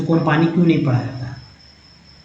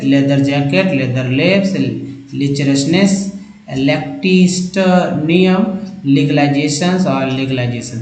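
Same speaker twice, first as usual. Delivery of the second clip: quick run-through reading; slower than usual. Shown as a demonstration. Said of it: "तो तेजी में पढ़ेंगे ऐसे".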